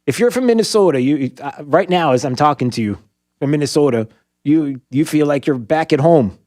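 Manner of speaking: put-on a light, playful Minnesota accent. Host addressing Minnesota listeners: light Minnesota accent. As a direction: talk to Minnesotans like a homesick neighbour, in a hint of Minnesota. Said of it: "that's how they talk in Minnesota".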